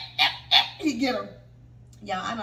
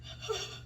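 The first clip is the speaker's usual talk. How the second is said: high, soft sobbing breath; mock sob; 10 semitones higher, 13 dB quieter than usual. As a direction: let out an acted sob. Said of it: "I'm boo crying".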